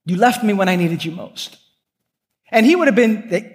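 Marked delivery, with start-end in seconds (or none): 0.0-1.6 a mock scolding, leaning on guys; stern rebuke. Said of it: "he got in the room and he said".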